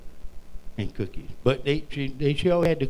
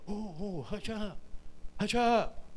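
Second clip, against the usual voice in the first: mock shushing; 5 semitones higher, 8 dB quieter, slower than usual. Crowd shushing the beggar.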